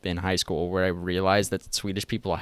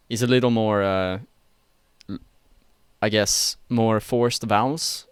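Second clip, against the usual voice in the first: Swedish accent. Shown as a demonstration. Showing friends a Swedish accent on request, Swedish-accented. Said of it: "if I can, like, turn it on".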